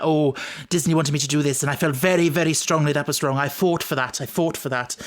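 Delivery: lightly voiced Welsh accent; a hint of a Welsh accent, earnest; the speaker in a Welsh accent. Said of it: "excuse the Welsh accent".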